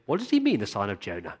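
a light mock of confused religious scholars; puzzled Pharisees. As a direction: imitate scholars stumped over a scroll. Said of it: "huddled together around their scroll saying".

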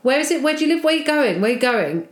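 a hint of the nagging drunk; pestering drunk. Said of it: "So Lisa goes".

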